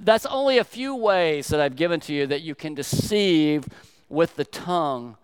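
loud, pounding sermon cadence; loud preacher hammering a list of sins; preaching at full force. Acted. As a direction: drive each deceive home like a preacher. Pastor preaching rebuke in story.

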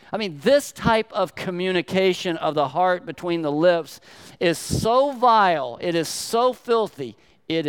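fiery preacher decrying filthy speech; preaching at full force. Acted. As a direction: build to a pulpit peak on "so vile". Preacher builds to climax.

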